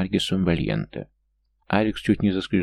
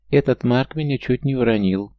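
raised, whiny little gnome telling tales; a small gnome complaining to the dragon, a bit higher and louder; tattling gnome; 6 semitones higher, 4 dB louder than usual. A narrator's reading. Gnome tattling to Alex, higher whiny voice. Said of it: "наябедничал ... гном".

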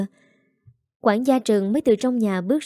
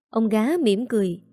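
plain reading voice

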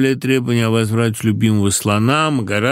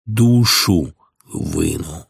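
blunt Roman threat; 3 semitones lower, much slower than usual. A narrator's reading. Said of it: "с прямотой римлянина".

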